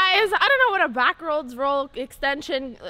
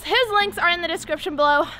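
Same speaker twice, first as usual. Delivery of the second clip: usual speaking voice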